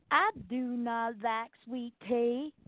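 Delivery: slow, flat-pitched mock monotone, no ups and downs; mock monotone Lacey. Mocking Lacey's monotone to a podcast cohost, slow and even. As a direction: imitate a drawling Southern belle who never varies her tune. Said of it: "She just stays monotone".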